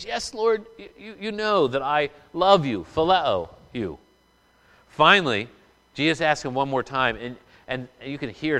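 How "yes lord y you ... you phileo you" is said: a lifted, earnest plea that eases down; humble yet urgent answer to the Lord; humble Peter. Acted. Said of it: "Second time Peter humbly says".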